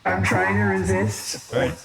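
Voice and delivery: loud, slow, entranced crazy voice; fighting the urge, unhinged. Acted. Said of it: "Roxy's doing the crazy voice again".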